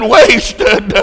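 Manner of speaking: high, drawn-out wail, acted sob; sobbed cry. A narrator's reading. Dying Charlie falling back on the bed, sobbing it. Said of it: "Then he sobbed and said".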